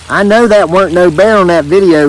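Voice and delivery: lightly voiced Southern lawman, deep South accent; officer in a mild deep South accent. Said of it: "that was deep South accent there".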